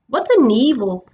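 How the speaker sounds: high, excited creature voices; eager gossiping beasts; excited animal chatter. A narrator's reading.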